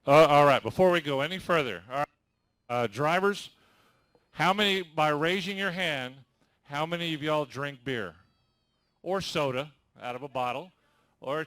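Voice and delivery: loud announcer call over the crowd; calling out to the room. Real, not acted. Announcer calls out to the lined-up drivers, loud. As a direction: project it to the back row.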